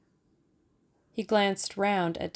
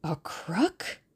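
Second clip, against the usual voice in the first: eager. A narrator's reading. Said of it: "he queried eagerly".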